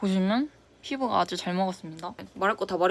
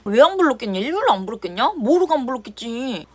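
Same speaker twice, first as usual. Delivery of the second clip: indignant retort; 3 semitones higher, 5 dB louder than usual. Retold or imitated. Imagined retort to the manager.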